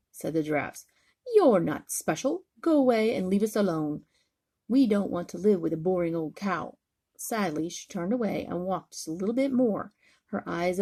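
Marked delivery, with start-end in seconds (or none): 1.3-6.8 rude dismissal. Acted. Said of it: "but not very nicely".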